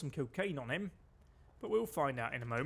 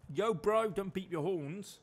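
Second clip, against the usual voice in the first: calling out; 4 semitones higher, slower than usual. Real, not acted. Calling out at honking drivers.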